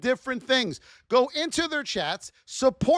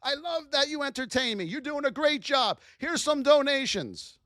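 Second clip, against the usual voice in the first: friendly chat greeting; 3 semitones higher than usual. Pretend. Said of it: "I go in there and say".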